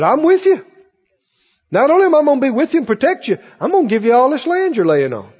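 a hint of a reassuring Lord; lightly voiced Lord. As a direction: comfort him as God would. The Lord comforting Jacob.

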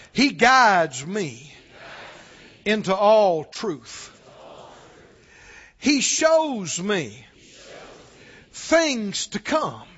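very slow phrase by phrase, with pauses; slow lead-in for repeating. Shown as a demonstration. Leading the congregation in a confession, very slow. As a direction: dictate it slowly so the room can follow. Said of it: "Everybody say this out loud".

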